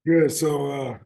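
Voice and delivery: slightly hoarse, raspy coach's voice. Real, not acted. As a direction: speak through a worn, raspy throat. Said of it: "I got a coaching little raspy voice".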